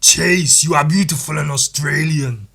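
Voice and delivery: put-on loud Austrian-accented doctor voice; a gruff action hero playing a grumpy doctor; Arnold as House. Austrian-accented House barking at his team, loud. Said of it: "House if it was played by Arnold".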